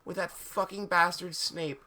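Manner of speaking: high, pleading tearful question; mildly acted tearful plea. A narrator's reading. Ebony questions Draco about Snape, mock tearful. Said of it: "I asked tearfully".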